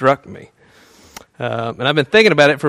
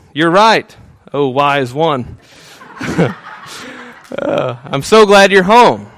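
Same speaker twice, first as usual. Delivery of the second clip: hammed-up adoring wife; 2 semitones higher, 4 dB louder, slower than usual. Husband playing his wife's ideal answer, hammed-up gushing praise. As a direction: lay the flattery on thick, slowing on oh wise one.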